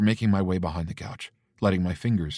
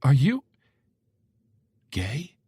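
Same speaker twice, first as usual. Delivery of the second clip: quiet mother question; 8 semitones higher, 6 dB louder, slower than usual. Acted. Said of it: "my mom asks quietly".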